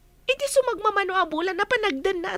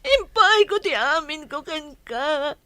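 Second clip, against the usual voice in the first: loud raging accusation; furious shout; 11 dB louder than usual. Acted. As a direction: scream her betrayal at him. Mistress raging at cheating lover. (napungtot nga ikkis)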